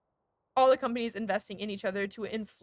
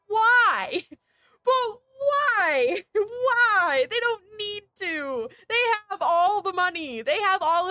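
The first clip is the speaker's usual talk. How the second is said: high, loud, half-laughing why; laugh-crying at the absurdity; laughing exasperation; 7 semitones higher, 4 dB louder, slower than usual. Real, not acted. Streamer asks why rich companies need more profit, laughing in despair.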